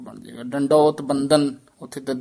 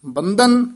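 ਬੰਧਨ raised and set apart; pause after ਬੰਧਨ; 6 semitones higher, 3 dB louder, slower than usual. Shown as a demonstration. Teacher marks a second stop, pause after ਬੰਧਨ. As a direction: lift ਬੰਧਨ, then wait. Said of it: "ਇੱਥੇ ਵੀ ਠਹਿਰਾ ਦੇ ਦੇਣਾ ਹੈ".

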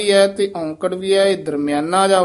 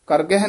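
ਕਰ ਗਹਿ squeezed into one word; fuse ਕਰ with ਗਹਿ; wrongly joined; faster than usual. Shown as a demonstration. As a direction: say ਕਰ ਗਹਿ quickly with no gap. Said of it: "ਨਹੀਂ ਕਹਿਣਾ".

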